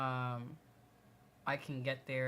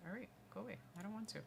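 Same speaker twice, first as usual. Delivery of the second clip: shooing away; 5 semitones higher, 12 dB quieter than usual. Real, not acted. Shooing a pet or child away.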